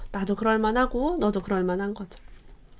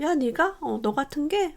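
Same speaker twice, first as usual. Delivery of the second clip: higher, sneering put-on family voice; mocking scorn; 6 semitones higher, slower than usual. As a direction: scoff at her ambition like a dismissive relative. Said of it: "비웃고". (비웃는 듯한 흉내)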